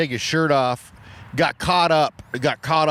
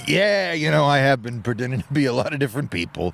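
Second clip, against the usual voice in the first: sheepish guy caught out; faster than usual. Retold or imitated. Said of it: "this guy getting called out".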